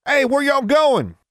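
slow, high, loud holler; drawn-out Southern call from afar. A narrator's reading. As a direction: shout it across the yard with a country drawl. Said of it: "Burton called out".

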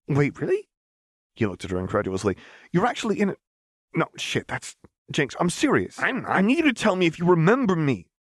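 high, urgent disbelief; incredulous Echo. Acted. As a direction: press her, half panicked.

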